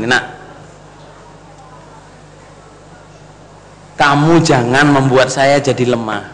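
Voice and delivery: slow gentle plea. Retold or imitated. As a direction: plead gently, barely holding back tears. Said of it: "Dia ngomongnya pelan-pelan". (permohonan pelan dan lembut sambil menahan tangis)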